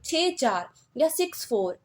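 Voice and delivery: "छः चार" and "सिक्स फ़ोर" as separate digits; one by one. Shown as a demonstration. Teacher showing how to read after the point, one by one. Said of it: "एक एक पढ़ोगे".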